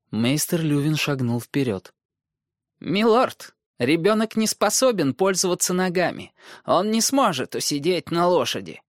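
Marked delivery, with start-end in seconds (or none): 2.8-8.8 concerned maester. Acted. Maester objects.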